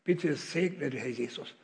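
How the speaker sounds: hushed closing prayer; quiet prayer. Acted. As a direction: pray it gently to the Lord.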